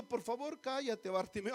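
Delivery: soft, mild mock-polite plea; demonstrating a quiet, courteous hushing; polite request. Shown as a demonstration. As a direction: ask gently, as a mere courtesy. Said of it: "no le estaba diciendo".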